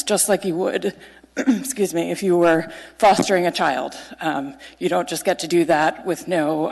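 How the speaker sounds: nervous laughs, clearing throat; stumbling through with nervous giggles; nervous rambling. Real, not acted. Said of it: "sorry, I'm nervous".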